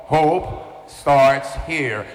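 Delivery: slow, emphatic declaration to a congregation; real loud. Shown as a demonstration. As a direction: proclaim it slowly for everyone to repeat. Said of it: "real loud".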